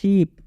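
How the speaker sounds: शीप with a long held ee; शीप said with a long vowel; long ee in sheep. Shown as a demonstration. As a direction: stretch the ee in शीप. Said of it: "जैसे हम लोग शीप बोलते हैं".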